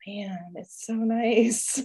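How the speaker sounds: slow, drawn-out and dreamy; slow, dreamy relief; blissful sigh. Retold or imitated. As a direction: melt into the relief of a quiet weekend. Savoring weekend away.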